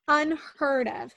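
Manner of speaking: "unheard of" stretched out very slowly; slow emphasis. Shown as a demonstration. Stressing to the host how rare it was, slowly. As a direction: lean on "unheard of" word by word.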